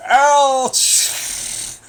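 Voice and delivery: sharp high yelp of real pain. Real, not acted. Hurt by something, yelping out loud. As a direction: cry out from sudden hurt. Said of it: "You fucker".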